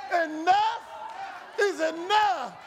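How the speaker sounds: firm, emphatic declaration, said with full conviction; like they mean it. Shown as a demonstration. Preacher to the congregation, leading the cry with conviction. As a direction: push it out so they hear you mean it. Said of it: "say it like they mean it".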